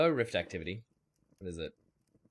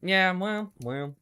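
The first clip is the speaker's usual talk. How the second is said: mock exclamation; 10 semitones higher, 7 dB louder, much slower than usual.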